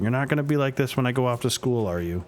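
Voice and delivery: lightly voiced teen, half teasing, half pointed; teen daughter. Daughter Amanda asking her dad about college, half teasing. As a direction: needle your dad with the question.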